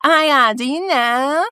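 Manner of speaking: mock American outrage, rising at the end; American accent. Formerly fat self lecturing others, exaggerated American accent. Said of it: "suddenly had an American accent".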